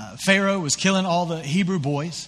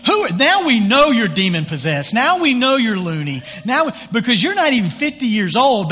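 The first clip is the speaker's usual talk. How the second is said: raised, louder, higher heckling voice; indignant jeering crowd, pitched up; mock angry crowd; 5 semitones higher, 5 dB louder than usual. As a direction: play the outraged Pharisees shouting him down. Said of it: "like, all crazy".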